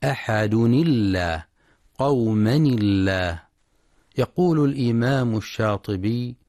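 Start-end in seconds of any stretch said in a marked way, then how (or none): 0.0-3.4 connected recitation showing a light lam in الله; thin lam in Allah. Shown as a demonstration. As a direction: join أحد الله with a kasra on the nun and a thin, light lam. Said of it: "تنطق اللام في لفظ الجلالة مرققة عند الوصل".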